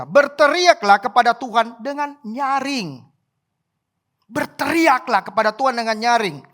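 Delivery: slow, stretched preaching of the verse; emphatic verse reading to a congregation; declaimed scripture. A narrator's reading. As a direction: proclaim it with long-held key words. Declaims verse about crying loudly.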